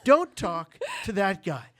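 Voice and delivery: high, loud, hammed-up warning; mock outraged cousin. Cousin warning Margaret away from the narrator, loud mock outrage. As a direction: sell the cousin's horror at this guy.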